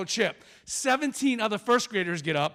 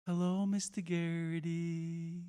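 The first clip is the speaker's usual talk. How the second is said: slow, softer first-grade chant; unison class greeting; 3 semitones lower, 8 dB quieter, slower than usual. Retold or imitated. First graders greeting their special guest, slow sing-song chant. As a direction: drag it out like a class reciting together. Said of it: "all go in unison".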